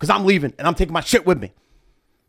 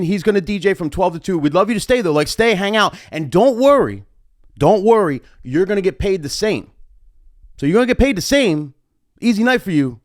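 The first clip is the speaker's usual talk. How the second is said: a pitched-up, smooth promoter voice; imitating the promoter; 4 semitones higher than usual. Promoter calming the DJ about sharing the night, lightly voiced. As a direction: reassure him like a slick promoter.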